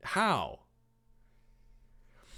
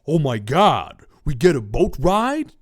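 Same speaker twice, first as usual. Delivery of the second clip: loud delighted yell; 2 semitones higher, 10 dB louder than usual. A narrator's reading. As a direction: shout it out in thrilled disbelief. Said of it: "Tereti yelled".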